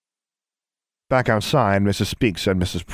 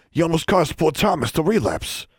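higher put-on wizard voice, reproachful; scolding wizard; 10 semitones higher than usual. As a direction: chide the girl as the wizard.

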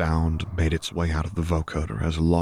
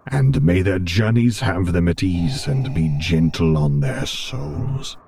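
louder character voice, slowing at the end; joint prayer; 5 dB louder than usual. A narrator's reading. Vader and Luke praying for the dead, strong intoned voice. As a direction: intone it strongly, drawing out the last words.

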